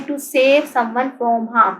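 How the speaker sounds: very slow, each word spaced for dictation; to save someone from harm said word by word, slowly. Shown as a demonstration. Teacher dictating a meaning to pupils, very slow. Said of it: "dictating definition slowly".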